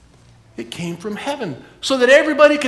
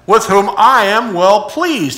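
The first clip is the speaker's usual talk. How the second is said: big voice; 10 dB louder, slower than usual. Shown as a demonstration. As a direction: boom it out like God from the sky. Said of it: "I'm trying to do a big voice".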